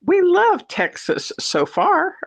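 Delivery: lightly voiced foreign newcomer, slow and high; imitating the Russians. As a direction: play the new Russian neighbors, a bit hammed up. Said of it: "And then they said".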